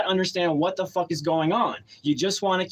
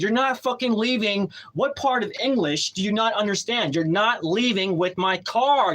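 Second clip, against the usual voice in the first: higher, insistent retold refusal; angry standoff; 4 semitones higher than usual. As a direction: re-enact blocking the driver, indignant.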